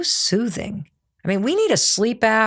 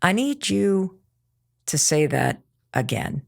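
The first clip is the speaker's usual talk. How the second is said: slow firm demo; 2 semitones lower, 4 dB quieter than usual. Shown as a demonstration. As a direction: lay it down slowly and coolly, no heat. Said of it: "I love this".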